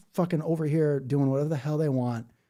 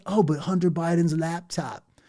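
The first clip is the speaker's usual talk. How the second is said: mock gotcha voice; 4 semitones higher, 3 dB louder than usual. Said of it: "they go".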